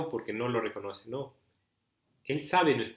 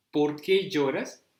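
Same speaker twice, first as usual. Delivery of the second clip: slow, tender question, a bit louder; a very slow, loving why are you crying; Jesus asking gently; 4 semitones higher, 6 dB louder, much slower than usual. Acted. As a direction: ask slowly, like Jesus comforting her. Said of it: "le hace esa pregunta".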